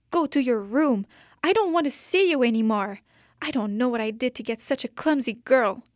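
loud, fast, angry scolding; mother screaming at her daughter over the broken vase. Acted. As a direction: yell it down at the clumsy child. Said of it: "She screams".

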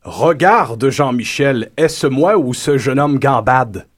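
slow, mannered commentator voice; posh commentator. Acted. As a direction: comment like a stuffy aristocrat.

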